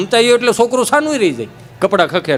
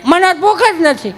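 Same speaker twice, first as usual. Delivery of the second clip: put-on sulky child; 7 semitones higher than usual. Child sulking at dinner.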